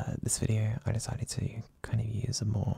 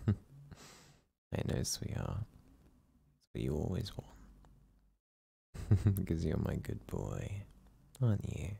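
relaxed ASMR whisper. Acted. Boyfriend whispering his partner back to sleep, hushed and soothing. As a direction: lull him to sleep in a hushed, tender murmur. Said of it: "use a more relaxed and deep tone of voice".

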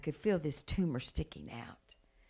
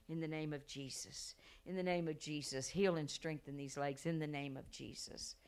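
hushed healing prayer; 7 dB quieter than usual. Retold or imitated. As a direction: pray softly over a child. Acts out quiet healing prayer.

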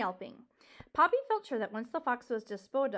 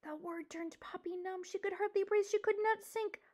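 numb dread; 6 semitones higher, 3 dB quieter than usual. A narrator's reading. Narrator voices numb fear.

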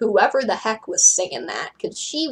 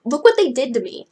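higher, louder distressed wail; mock sobbing; 4 semitones higher, 6 dB louder than usual. Claudine shows what was done to her, mock sobbing. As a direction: cry it out in acted distress.

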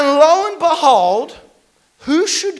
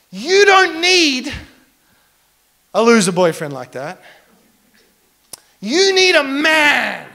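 corny romantic declaration. Retold or imitated. Retold corny romantic speech.

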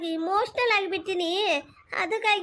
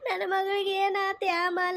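mock weeping plea. Mother begs doctor, weeping.

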